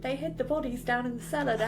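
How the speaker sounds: put-on fast Cockney child, half laughing; comically poor Cockney accent; bad Cockney accent. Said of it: "really shit Cockney accents".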